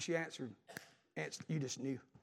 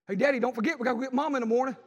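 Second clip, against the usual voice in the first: retold holler, higher and louder; 5 semitones higher, 5 dB louder, faster than usual. Preacher voicing son calling to his daddy, hollering. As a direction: call out to Dad as if down the hall. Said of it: "And he hollered".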